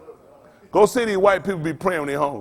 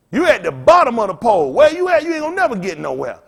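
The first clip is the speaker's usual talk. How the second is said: heated preaching; 4 semitones higher, 5 dB louder than usual. Real, not acted. Preaching peak of rant.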